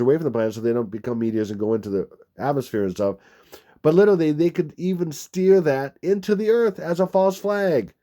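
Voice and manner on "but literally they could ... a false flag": emphatic alarm. Real, not acted. Emphatic warning, big jump.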